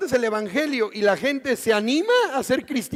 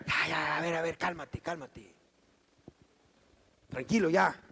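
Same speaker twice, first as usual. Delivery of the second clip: much softer, soothing hush; calming someone; 6 semitones lower, 6 dB quieter than usual. Retold or imitated. Preacher calms an angry grump, soft and soothing. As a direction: settle someone down gently.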